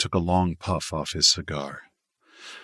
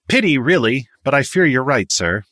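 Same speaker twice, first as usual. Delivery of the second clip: high, loud, self-satisfied regret; grandiose; 7 semitones higher, 6 dB louder than usual. A narrator's reading. Miles agrees with Victor that it's a pity, grandiose. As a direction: feign regret with pompous ease. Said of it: "full beaming grandiosity".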